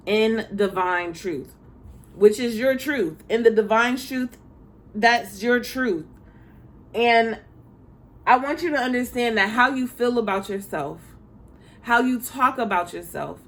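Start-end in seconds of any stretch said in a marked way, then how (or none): none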